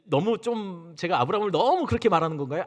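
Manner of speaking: usual speaking voice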